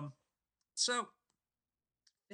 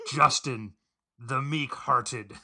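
slow, drawn-out arena introduction; mock ring announcer; 7 dB louder, much slower than usual. Introducing a friend as a gladiator, mock ring announcer. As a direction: stretch each phrase like a circus ringmaster.

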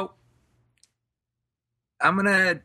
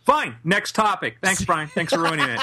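higher-pitched, feigned annoyance; playfully huffy, giving up on the topic; mock exasperation; 5 semitones higher than usual. Host to co-host who spoiled it, in mock exasperation.

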